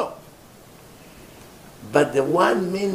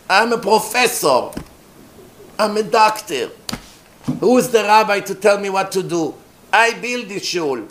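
mock self-important objectors, pitched up; indignant liberal congregants; 4 semitones higher than usual. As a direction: puff yourself up in protest. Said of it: "That's how they talk".

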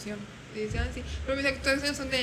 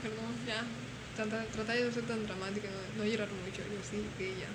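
retold weary consoling; 2 semitones lower, 7 dB quieter than usual. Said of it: "y yo con cara de".

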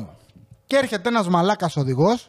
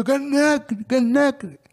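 impatient driver; 7 semitones higher, slower than usual. Retold or imitated. Angry driver honking at him.

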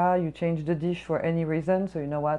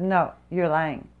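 slow, put-on accusing customer voice; mock accusing customer; 4 dB louder, slower than usual. Server mimics the customer calling her a liar, slow and accusing. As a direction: drag it out like a rude customer calling you a liar. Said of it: "She said".

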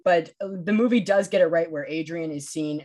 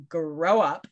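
mock diva-ish delivery; lightly affected diva put-down; Matthew Goode. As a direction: imitate a diva in an odd half accent. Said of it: "He's all diva-ish".

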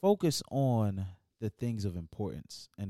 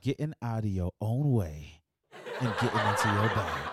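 preaching; 4 dB louder than usual. Acted. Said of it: "one more time for the church".

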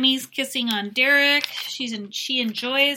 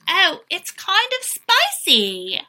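mock high sweet voice; 9 semitones higher, 6 dB louder, slower than usual. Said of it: "and she says".

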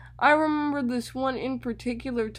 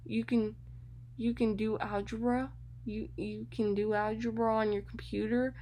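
flustered stammering, trailing softer; nervous stammer; 4 dB quieter than usual. Retold or imitated. The teacher fumbling to reassure her student, nervously stammering. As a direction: stumble over every word, a bit panicked. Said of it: "She was so nervous".

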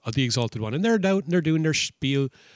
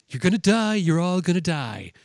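retold warning; 3 semitones higher than usual. Retells threat, repeats it bigger.

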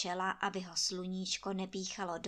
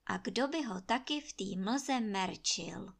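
ordinary delivery

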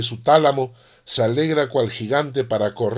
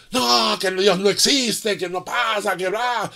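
high-pitched mock shout, slowed at the start; retold atheist yelling; 5 semitones higher, slower than usual. Atheist yelling at a Christian in a Lima plaza, mimicked high and heated. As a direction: toss off the atheist's heated denial in a raised voice. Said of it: "lo gritaba al cristiano".

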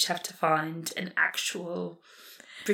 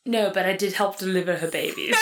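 put-on British accent. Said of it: "Call the Midwife".

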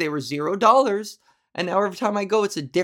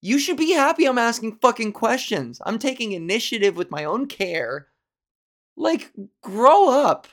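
1 angry rant at doctor. Retold or imitated. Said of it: "I was like".

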